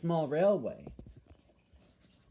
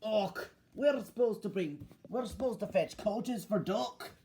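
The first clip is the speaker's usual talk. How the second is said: higher-pitched engine character; Douglas; 4 semitones higher than usual. Acted. Douglas talking to Donald about fetching coaches, higher voice. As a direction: voice an engine with a job to do. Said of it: "said Douglas".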